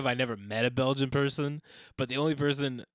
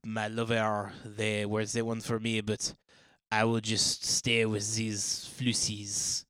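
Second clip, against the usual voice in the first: French film romantic; slower than usual. Acted. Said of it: "French romantic comedy".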